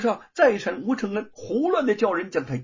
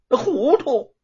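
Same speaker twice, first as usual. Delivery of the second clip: louder, high angry scolding; 4 semitones higher, 3 dB louder than usual. Acted. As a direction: scold the foolish servant. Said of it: "范谷骂道".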